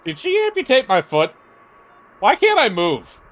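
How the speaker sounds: high, alarmed patient voice; panicked questioning. Acted. Patient who can't move questions doctor, panicked. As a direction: ask it high, in mounting panic.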